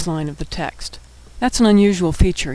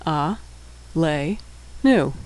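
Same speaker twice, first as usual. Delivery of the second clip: syllable by syllable; 4 dB quieter, much slower than usual. Shown as a demonstration. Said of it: "and shurech".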